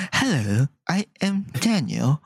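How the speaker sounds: lightly put-on British accent; bad British accent. Mocking a friend's failed accents, lightly faked British accent. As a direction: attempt British English unconvincingly. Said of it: "Daniel can't do accents".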